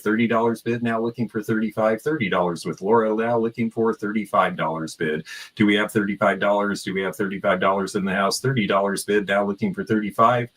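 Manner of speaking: rapid repeating bid call; auctioneer. Acted. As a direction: chant the bids like an auctioneer. Live auction calling.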